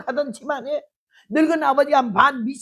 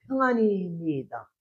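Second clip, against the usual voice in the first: slow, quiet, settled; calm reassurance; 3 semitones lower, 4 dB quieter, slower than usual. Acted. Wife reassures her husband, slow and soft. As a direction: tell him all is well, gently. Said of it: "아무 일도 없대".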